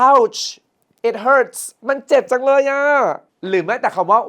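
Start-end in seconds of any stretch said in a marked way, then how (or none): 0.1-2.8 high, loud, hammed-up hurting; acted pain. Shown as a demonstration. Teacher acting hurt abroad to get help, pained cry. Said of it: "จะเจ็บแล้วขอความช่วยเหลือเนี่ย ต้องลองว่า".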